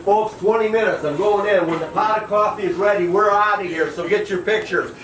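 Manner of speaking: captain giving orders to passengers; announcing. Retold or imitated.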